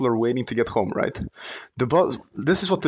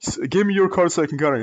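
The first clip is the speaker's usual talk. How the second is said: retold demand; 5 semitones higher than usual. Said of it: "He started".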